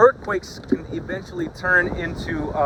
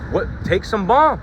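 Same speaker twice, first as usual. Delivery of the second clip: mock advice, pitched up; sarcastic; 3 semitones higher, 3 dB louder than usual. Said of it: "the Lord's being sarcastic".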